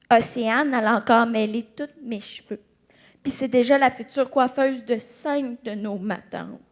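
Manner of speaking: low, deadpan mock resignation; unimpressed relative. Relative predicting Océane's hairdressing future, low mock resignation. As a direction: drop low, letting the enthusiasm go.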